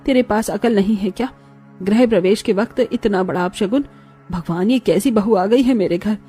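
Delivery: acted, understated scolding; angry mother-in-law. Mother-in-law scolding new bride over spilt alta, mildly angry. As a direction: berate her with contained anger. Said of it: "माँ अभी बहुत गुस्से में है".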